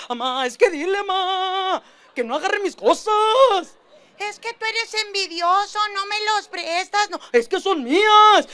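put-on high whiny kid voices arguing over toys; two kids fighting, pleading to mom; squabbling kids. Niños discutiendo por cosas. (niños chillones peleando por sus cosas)

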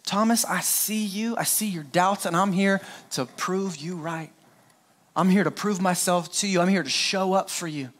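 tender reassurance. Retold or imitated. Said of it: "he said".

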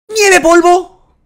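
slow, high, loud move call like an anime hero; hammed-up anime move shout; drawn-out attack call. Real, not acted. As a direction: announce the attack grandly. Calling a move dramatically.

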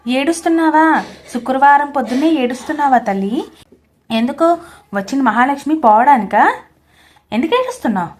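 mother-in-law yelling at her crying daughter-in-law; loud shrieking rebuke; angry yelling. A narrator's reading. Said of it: "అరుస్తూ ఉన్నారు శైలజ గారు".

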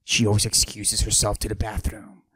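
macho voice pushed down, held the whole bit; forced deep voice. Acted. Mister Steal Your Girl hiding his estrogen with a forced deep voice. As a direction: fake a deep tough-guy voice. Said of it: "I deepen my voice like this".

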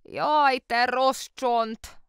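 high, loud, slow scolding cry; the aunt crying out at the egg-stained tablecloth; exclaimed. A narrator's reading. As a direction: cry out in fond reproach. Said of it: "kiáltott fel".

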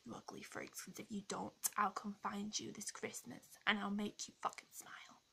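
usual speaking voice

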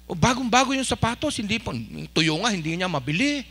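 lightly acted hushed gossip; gossipy murmuring. Gossip carping about someone's new shoes, murmured. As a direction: mutter it behind someone's back, dropping off softly. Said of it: "marites ho yun".

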